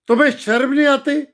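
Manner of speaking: burning angry reproach; angry rebuke. Real, not acted. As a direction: lash out at the leaders in shame. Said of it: "आग लगी पड़ी मेरे सीने में".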